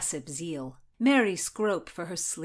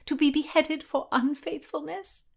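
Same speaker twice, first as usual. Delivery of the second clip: high, half-whispered fretful muttering; 7 semitones higher than usual. A narrator's reading. Anne mutters to Margaret about her sentence, muttering.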